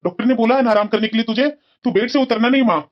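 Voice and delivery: concerned insistence. Acted. Son insisting mother rest in bed.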